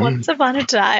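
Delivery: storytime voice. Pretend. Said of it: "put on our story time voices".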